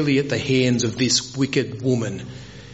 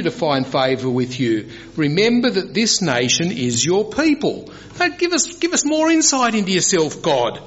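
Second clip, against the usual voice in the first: high-pitched, urgent appeal to God; Moses petitioning; 6 semitones higher than usual. Retold or imitated. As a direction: play Moses arguing his case with the Lord. Preacher acts out Moses petitioning God.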